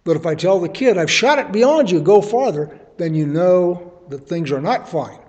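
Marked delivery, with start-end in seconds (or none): 1.0-2.8 put-on raised, higher call to a distant boy. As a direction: call it out across the field. Calling out to the boy.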